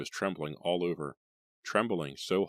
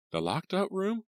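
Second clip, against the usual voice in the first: surprised mother. Acted.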